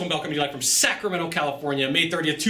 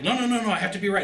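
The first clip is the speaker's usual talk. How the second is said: stubborn salesman; 6 semitones higher, faster than usual. Retold or imitated. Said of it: "so he's like".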